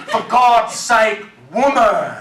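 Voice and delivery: hammed-up exasperated yell, slowed at first; exasperated mock shout laughing through it. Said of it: "I just yelled at the answering machine".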